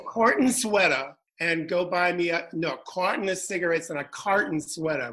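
imitated Boston accent. Friend retells their running joke, Boston accent. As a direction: mix up the words in mock Boston. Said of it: "Our joke was she would say".

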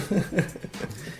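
short breathy laugh; a quick airy chuckle; soft laugh. Real, not acted. Laughs after the podcast plug. (risada curta e soprada)

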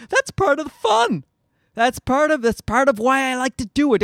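high, mocking whiny voice; mocking quote. Comedian mocks smug people, whining it up high. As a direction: mimic the smug people who love uncertainty. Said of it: "people always say".

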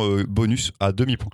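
words through a small burp; talking while burping. Real, not acted. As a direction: speak around a burp. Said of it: "Oh, pardon, j'ai roté". (parler en rotant)

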